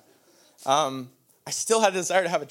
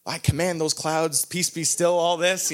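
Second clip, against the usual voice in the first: slow, raised and louder, like a preacher rebuking the sky; mock storm command; 3 semitones higher, 5 dB louder, slower than usual. Pastor laughing at himself rebuking the storm, hammed-up command. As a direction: command the clouds in a self-mocking, hammed-up way.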